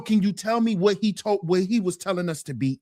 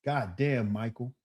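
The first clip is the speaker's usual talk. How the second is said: deep, soft reverent murmur; hushed awe; 11 semitones lower, 10 dB quieter than usual. Retold or imitated. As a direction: breathe it low like a worshipper. Mocking awed Michael fan.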